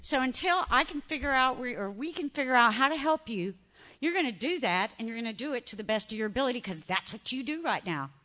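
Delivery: a hint of a stern mentor; stern quiet instruction. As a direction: lay down the plan calmly. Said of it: "She says".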